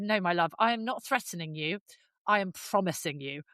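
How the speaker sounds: low, measured warning, lightly acted; retold cool threat. Owner retells answering the woman, coolly threatening.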